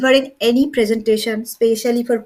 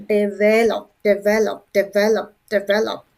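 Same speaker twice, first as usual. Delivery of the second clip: Develop repeated evenly, lower, weight on VEL; second-syllable stress; 5 semitones lower than usual. Shown as a demonstration. Teacher drilling the word, stress on VEL in Develop. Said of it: "putting the stress on the second syllable".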